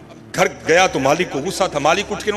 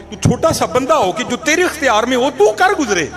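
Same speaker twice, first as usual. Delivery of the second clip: high and loud, with full force; booming divine proclamation; 9 semitones higher, 4 dB louder than usual. Shown as a demonstration. Voice in the dream proclaiming, loud and high. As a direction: proclaim it as God's own words. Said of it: "repeated louder".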